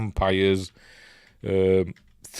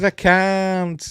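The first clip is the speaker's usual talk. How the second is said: tearful refusal; 10 semitones higher than usual. Retold or imitated. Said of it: "And she says".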